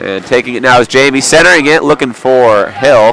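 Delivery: excited play-by-play. Real, not acted. Live hockey play-by-play.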